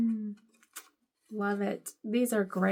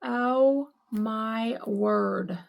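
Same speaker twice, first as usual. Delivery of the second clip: awed; 3 dB louder, much slower than usual. Real, not acted. Overwhelmed by vintage Halloween gift.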